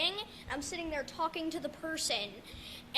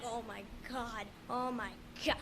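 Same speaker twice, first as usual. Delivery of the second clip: softer, lower, moaning oh my God; mock suffering; 5 semitones lower, 8 dB quieter than usual. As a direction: groan it out under your breath. Suffering, rushed to camp.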